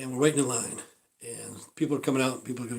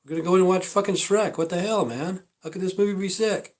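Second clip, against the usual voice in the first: high-pitched, incredulous questioning; puzzled protest, voice pitched up; baffled inner reaction; 6 semitones higher than usual. Retold or imitated. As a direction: act out bewildered disbelief. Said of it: "You know, I'm thinking".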